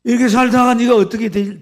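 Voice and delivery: loud, high acted cry of worry; hammed-up parental lament; anguished plea. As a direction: cry out like a frightened mother. Acts mother's tearful plea to child.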